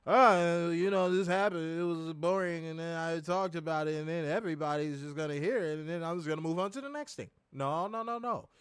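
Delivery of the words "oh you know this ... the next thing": rushed monotone. Retold or imitated. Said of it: "run through stuff like".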